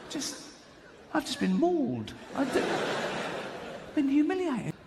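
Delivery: laughing. Retold or imitated. Chris after the ambush.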